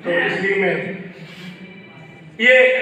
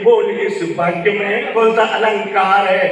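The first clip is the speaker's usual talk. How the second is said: poem recital; 2 semitones lower than usual. Shown as a demonstration. Recited verse.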